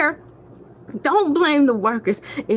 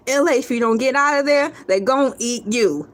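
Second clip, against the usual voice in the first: inner warning voice. Retold or imitated. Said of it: "My spider senses was like".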